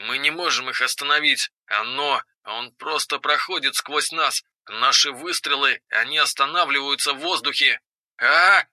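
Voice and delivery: faint, distorted voice over the radio; panicked soldier through static comms; police radio. Acted. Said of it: "тонул в помехах и звуках стрельбы". (испуганный голос по рации сквозь помехи)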